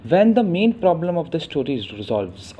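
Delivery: slow, careful English read; measured textbook reading; slow definition read. Shown as a demonstration. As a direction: spell out the definition slowly. Reads English definition slowly.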